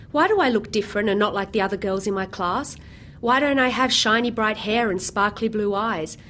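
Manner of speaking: storybook narration, gently animated; children's story reading. Acted. Author reading her picture book to the audience, storybook tone. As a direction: read it like a picture book to kids.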